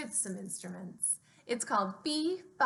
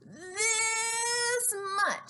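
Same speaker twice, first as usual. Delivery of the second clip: high, eager little hare; 11 semitones higher than usual. Acted. Little hare boasts to his father, in a high eager voice. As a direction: squeak it out proudly. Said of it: "stretching out his arms as wide".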